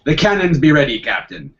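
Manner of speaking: loud pirate first mate. Retold or imitated. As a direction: report like a pirate sailor. Retold pirate joke.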